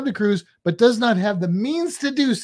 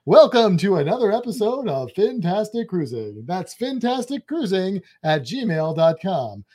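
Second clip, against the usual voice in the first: game show announcer. Shown as a demonstration. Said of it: "that's my game show announcer voice".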